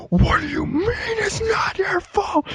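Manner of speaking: retold yelling dad. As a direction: erupt at your son like a volcano. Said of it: "screaming in my face".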